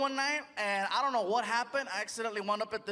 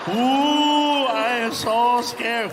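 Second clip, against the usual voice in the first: mock scared; 10 dB louder, much slower than usual.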